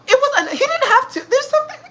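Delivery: words squeezed out through a high, real laugh. Real, not acted. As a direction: laugh helplessly while talking. Laughs through an awkward memory.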